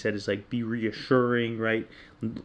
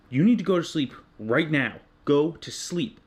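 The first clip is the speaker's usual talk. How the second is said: raised, firm order to go to sleep; retold yell; 3 semitones higher, 4 dB louder than usual. Dad at 3am yelling at his son to sleep. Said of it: "I yelled at him".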